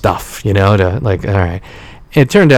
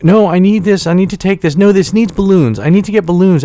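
high, pushy mom insisting; imitating his mom fussing over balloons, high-pitched; mom's voice; 10 semitones higher than usual. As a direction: play the mom talking over him, pitched way up. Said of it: "And my mom's like".

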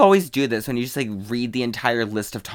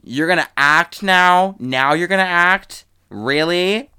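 sarcastic disbelief; 5 semitones higher, 4 dB louder, slower than usual. Retold or imitated. Mocking disbelief at acting role.

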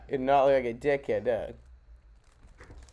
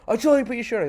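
higher, louder stern repeat; stern ranger; 7 semitones higher, 4 dB louder, much faster than usual. Retold or imitated. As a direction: ranger losing patience. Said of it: "He goes".

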